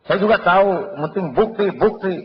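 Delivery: high, loud, insistent; demanding creditor. Acted. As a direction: hammer on the word bukti.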